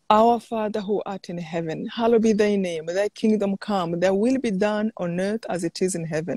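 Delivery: steady devout Our Father; measured prayer-leader voice; recited prayer. Acted. Leading the Lord's Prayer.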